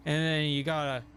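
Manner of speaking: rakish, rum-soaked pirate voice; Jack Sparrow. Shown as a demonstration. Streamer explaining the mannerisms of his impression, Jack Sparrow voice. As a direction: slip into a swaggering movie pirate. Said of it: "when you do a Jack Sparrow impression".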